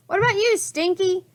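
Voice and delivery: captain's high, loud roar. A narrator's reading. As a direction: bellow at the second pirate. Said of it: "Captain Bones roared".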